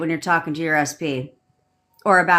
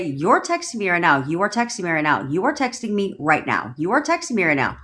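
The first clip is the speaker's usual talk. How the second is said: command tonality. Shown as a demonstration. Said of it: "look at their photo with some command".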